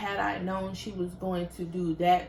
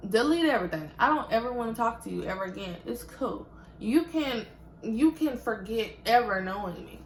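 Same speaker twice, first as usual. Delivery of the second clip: angry dismissal; 3 semitones higher, faster than usual. Retold or imitated. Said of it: "I was like".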